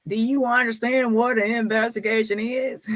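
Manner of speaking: mock his know-it-all question; smart-aleck quote. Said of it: "was being smart the last time when he said".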